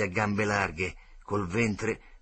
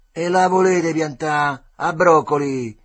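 slow, much louder scolding; loud rebuke; 5 semitones higher, 12 dB louder, slower than usual. A narrator's reading. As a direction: bark at the gang to stop. Begalone tells the boys to stop.

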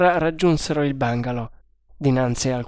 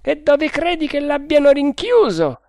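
a higher voiced guard, confident; overheard guard; 13 semitones higher, 5 dB louder than usual. A narrator's reading. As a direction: play the first guard, sure of himself. First guard asks. (guardia sicura di sé, voce più alta)

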